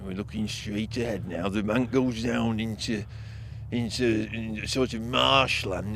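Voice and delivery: low, quiet voices in the dark; hushed nervous woods talk. Acted. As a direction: keep it hushed as if something might hear. Spooked documentary crew in dark woods.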